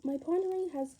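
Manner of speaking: loud, excited reveal of a big idea; excited announcement. Acted. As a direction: proclaim it proudly, full voice. Dramatic discovery of idea.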